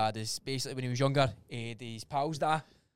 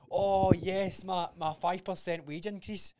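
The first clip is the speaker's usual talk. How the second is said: mocking smug people; 5 semitones higher, 5 dB louder, much slower than usual. Mocking people pleased with raise.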